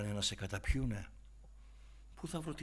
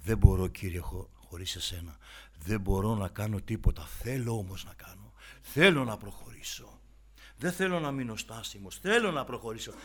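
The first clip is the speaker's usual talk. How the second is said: loud, pleading prayer to the Lord; heartfelt spoken prayer, louder; earnest prayer; 9 dB louder than usual. Acted. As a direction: pour it out like a plea. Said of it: "Πες το στον Κύριο".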